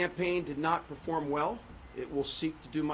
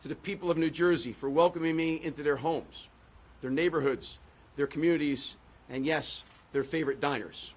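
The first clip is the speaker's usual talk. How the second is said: rousing podium speech with rhythmic repeats; formal speech. Acted. Candidate thanking supporters from the podium, formal speech. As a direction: deliver it like a rally speech to the crowd.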